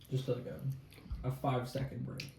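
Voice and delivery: quiet, winded from the heat; catching breath between bites; eating gross jelly beans. Real, not acted. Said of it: "I'm just taking a".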